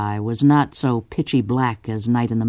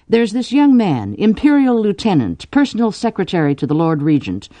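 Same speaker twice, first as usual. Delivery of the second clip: higher, list-like sales pitch; pitching a suitor; 6 semitones higher than usual. Acted. Cordelia pitches the young lieutenant to Drew's father, promoting. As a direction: talk up the candidate to her father. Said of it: "and I say".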